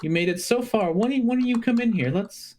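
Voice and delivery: a sneering little monster luring the heroes in; sly kobold boss. Acted. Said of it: "a very familiar kobold voice saying".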